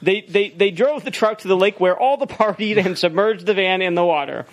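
lightly put-on email-reading voice; mild performed read of a listener's letter. Shown as a demonstration. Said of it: "Yeah, email voice. Do it".

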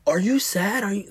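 put-on high-pitched child voice; imitating questioning kids. Kids pestering their crying dad with questions, high imitated child voices. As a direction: pester like a little kid. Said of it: "they ask me a million fucking questions".

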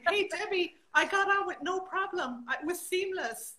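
high, loud, giggly teasing; laughing delight. Real, not acted. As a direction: crow happily to your friend through laughter. Delighted teasing of friend tuning in.

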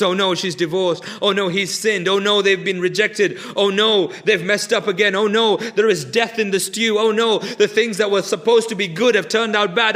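a hammed-up fretting list that climbs; mock panic building. Preacher mimicking a panicking God to the congregation, mock panic building. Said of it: "God is not panicking".

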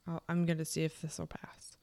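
soft unvoiced whisper. Real, not acted. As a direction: whisper while waiting. Waiting for the dog to settle.

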